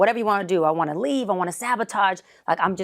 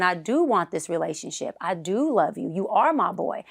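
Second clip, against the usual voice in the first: sincere plea that rises higher toward the end; healthy self, sincere; 5 semitones higher than usual. Retold or imitated. Healthy self pleading sincerely to a friend, rising in pitch. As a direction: speak as the healthy self, gently. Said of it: "My healthy self is saying".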